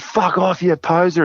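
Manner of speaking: high-pitched imitated dismissal; retold rebuff. Metal fans to an unrecognised singer, mock rebuff.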